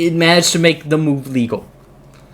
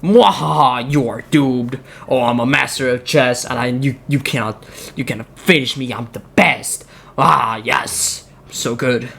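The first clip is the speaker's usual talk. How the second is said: lightly voiced gloating villain, low; mock evil gloat with a laugh; mad scientist; 4 semitones lower than usual. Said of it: "having the time of his life".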